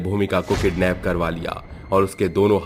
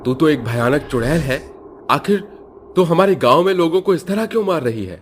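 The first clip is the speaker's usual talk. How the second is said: put-on high, louder old headman; old headman demanding; 8 semitones higher, 3 dB louder than usual. Headman angrily asking the witch why she kills villagers, high and louder. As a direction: confront the witch with fear and anger.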